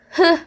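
H as a brief sound, not "he"; letter sound demo. Shown as a demonstration. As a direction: say H as a short, breathed "hı". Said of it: "diye okunur". (H'yi kısa "hı" sesiyle söyle)

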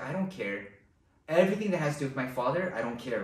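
low, soft, careless brush-off; dismissive son. Retold or imitated. Prodigal son brushing off his father, low and dismissive. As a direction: shrug it off like nothing matters. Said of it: "he's like".

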